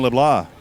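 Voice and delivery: LeBlanc with the final C silent; "LeBlanc" said as luh-BLAH. Shown as a demonstration. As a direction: end LeBlanc on an open "blah", no K. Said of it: "according to the pronunciation guide".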